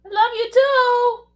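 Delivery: high, slow cute dog voice; voicing the dog. Speaking for Kobe back to Demetra in a high slow dog voice. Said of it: "He said he loves you".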